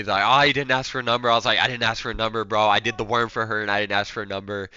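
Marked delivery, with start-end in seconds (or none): 0.3-1.3 teasing. Retold or imitated. Group making fun of him for no number, teasing. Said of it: "my group's making fun of me". 1.6-4.7 mild joking admission to a friend; joking reply. Retold or imitated. Answering the group's ribbing about the number, joking. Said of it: "we're kinda joking about it".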